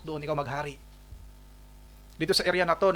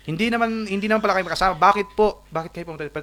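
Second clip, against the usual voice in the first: indignant retort; 5 semitones higher, 4 dB louder, faster than usual. Acted. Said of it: "kung ganun mag-isip yung isang tao".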